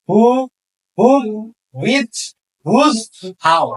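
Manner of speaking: "Who, whom, whose, how" with an audible h; H pronounced. Shown as a demonstration. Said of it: "বাকিগুলা কিন্তু এইচ এর উচ্চারণ".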